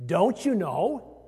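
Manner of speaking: "Don't you know?" slow, as a mild reproach with a lifted "you"; scolding tone. Shown as a demonstration. Pastor showing congregation Paul's scolding tone, mild reproach. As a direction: chide them gently, like Paul does. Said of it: "Kind of in that way, that tone".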